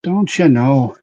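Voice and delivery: Canadian-Irish accent, stress on you, falling end; a Canadian-Irish lilt on you. Shown as a demonstration. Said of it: "mix of Canadian and, and Irish".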